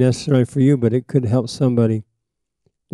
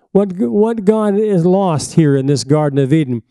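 preaching; 2 semitones higher than usual. Acted. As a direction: preach it hard to the congregation. Preaching at full force.

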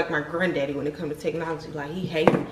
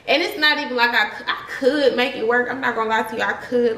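laughing through the words; 4 semitones higher than usual. Real, not acted. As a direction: giggle while you admit it. Laughing about her hair.

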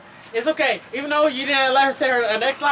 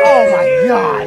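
stunned drawn-out oh my God; 10 dB louder, much slower than usual. Real, not acted. Reaction to the loud plug.

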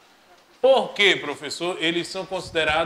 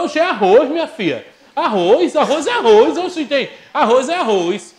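indignant shout; 8 semitones higher, 8 dB louder than usual. Acted. Husband arguing about rice.

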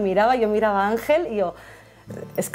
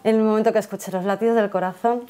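normal talking voice

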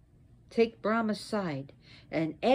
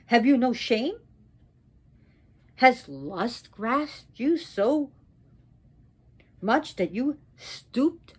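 angry reproach. Acted. Wronged goddess confronts her husband, angry reproach.

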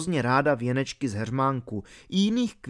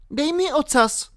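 put-on high-pitched girl giving an order; commanding; 14 semitones higher than usual. A narrator's reading. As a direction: order the dog firmly, voice high. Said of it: "poručila Alenka psovi". (rozkaz vysokým dívčím hlasem)

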